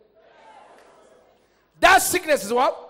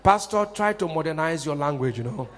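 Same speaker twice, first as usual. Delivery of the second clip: mock civilized objection; 7 semitones lower, 5 dB quieter than usual. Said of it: "That's the way some of us do".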